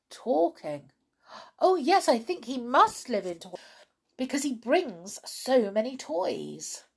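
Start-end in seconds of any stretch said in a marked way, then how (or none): 1.6-6.8 high, loud, eager little doll. A narrator's reading. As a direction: pipe up with keen certainty. Fairy doll eagerly tells what she knows.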